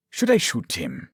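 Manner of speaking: calm, casually chilling question; calm menace. A narrator's reading. Doctor holding a gun to his lover, calm. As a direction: ask it coolly, without any agitation. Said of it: "he so calmly said".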